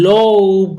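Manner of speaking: লৌভ with O gliding into U; OU pronunciation demo. Shown as a demonstration. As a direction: model the OU vowel in লৌভ. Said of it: "এই চারটি ওয়ার্ডের উচ্চারণ".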